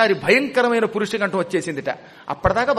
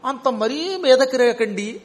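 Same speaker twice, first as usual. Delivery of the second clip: changed voice; 4 semitones higher, slower than usual. Retold or imitated. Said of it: "అని గొంతుకు కూడా మార్చాడు".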